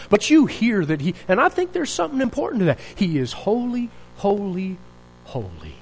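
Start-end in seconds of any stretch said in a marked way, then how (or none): 2.9-5.8 soft, fading to near silence; hushed reverence. Real, not acted. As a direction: let each holy drop away softer. Reverent climax on threefold holy.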